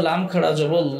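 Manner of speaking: "ল" held long with a rounded o-like vowel; heavy laam. Shown as a demonstration. Teacher applies the rule to this word, heavy long "ল". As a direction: draw out a full, dark L in "জবর ল". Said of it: "আগের হরফের উপরে পেশ আছে".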